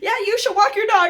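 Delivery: a hint of the YouTube guru; quoting the video. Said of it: "This video said".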